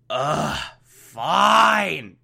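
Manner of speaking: reluctant sigh of give-in; rolling eyes. Real, not acted. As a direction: concede like it hurts. Grudging concession.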